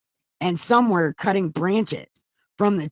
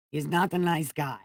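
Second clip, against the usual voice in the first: softer, muttered afterthought "He's not a nice guy"; quiet repeat; 5 dB quieter than usual. Acted. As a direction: say it again under your breath, deflated.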